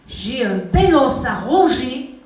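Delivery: slow demo. Shown as a demonstration. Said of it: "teacher demonstrates the dog line".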